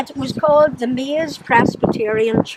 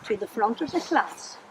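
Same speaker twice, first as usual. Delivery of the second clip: stern summons; 3 semitones lower, 8 dB quieter than usual. Retold or imitated. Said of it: "Mister Burns said".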